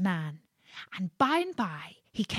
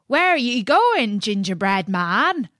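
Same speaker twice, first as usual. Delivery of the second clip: calling out; 2 semitones higher, 6 dB louder than usual. Acted. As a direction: shout a question to the runaway. Well diggers call out.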